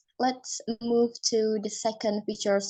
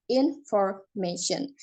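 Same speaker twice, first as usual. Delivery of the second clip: slow syllable demo; 2 semitones lower, slower than usual. Shown as a demonstration. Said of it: "four syllable".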